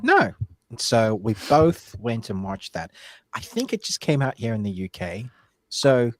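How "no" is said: quoted no. Retold or imitated. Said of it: "he was like".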